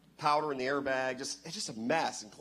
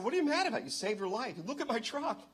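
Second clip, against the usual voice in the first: retold argument; 8 semitones higher than usual. Acted argument with the mad driver.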